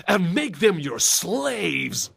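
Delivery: slow, high, "slaves" drawn out; emphasised last word. Retold or imitated. Co-host mocks game hero's delivery, slow with "slaves" stretched. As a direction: swell onto a long "slaves". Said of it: "emphasizing every single last word".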